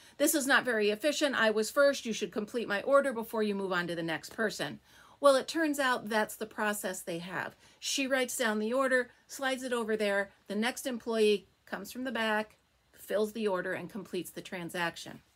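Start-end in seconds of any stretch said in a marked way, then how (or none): none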